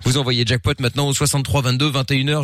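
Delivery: upbeat radio game announcement; radio host. Acted. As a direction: pitch the contest to listeners.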